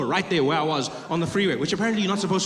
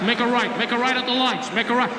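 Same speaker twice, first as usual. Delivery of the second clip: higher-pitched navigation orders; angry cop on Waze; 5 semitones higher than usual. Retold or imitated. Cop directs the driver turn by turn, mock angry. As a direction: mimic a cop as an irritated GPS. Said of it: "angry cop on my Waze".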